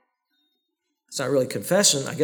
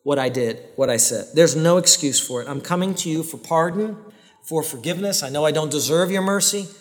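sincere confession prayer. Shown as a demonstration. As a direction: pray it humbly, meaning every word. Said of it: "It should sound something like this".

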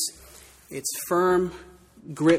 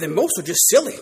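said out; 7 dB louder than usual. Acted. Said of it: "said Missus Beaver".

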